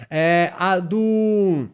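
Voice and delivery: slow, light Italian accent. Shown as a demonstration. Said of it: "eu tô falando meio com sotaque de italiano".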